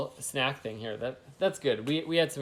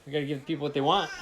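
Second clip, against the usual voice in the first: laughing; 3 semitones higher, faster than usual. Real, not acted. Laughing while speaking.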